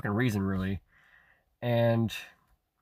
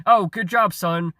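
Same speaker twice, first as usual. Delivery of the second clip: mock motherly praise; 6 semitones higher, 5 dB louder, slower than usual. Imagined praise from his mother.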